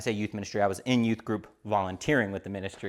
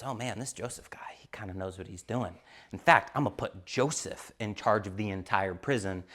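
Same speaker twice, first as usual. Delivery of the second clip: quiet jailer; 5 dB quieter than usual. Retold or imitated. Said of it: "the head of the prison goes".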